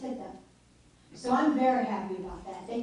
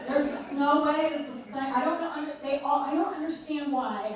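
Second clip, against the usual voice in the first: a hint of a mocking senator, higher with a laugh; lightly spoof a flustered politician; Lindsey Graham impression; 4 semitones higher, 4 dB louder than usual. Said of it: "doing my Al Gore Lindsey Graham voice".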